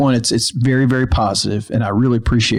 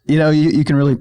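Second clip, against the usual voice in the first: put-on halting second try at an Australian accent, slightly higher; bad Australian accent; 4 semitones higher, faster than usual. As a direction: badly attempt an Australian accent, then falter. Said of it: "No, do it again".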